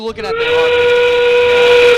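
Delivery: high excited call-out; hype shout. Real, not acted. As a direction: shout it over the crowd. Hyped call to co-host.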